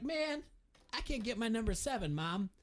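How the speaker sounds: high-pitched son griping to mom; mock complaining. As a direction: act out a let-down kid complaining. Acting out player complaining to mother.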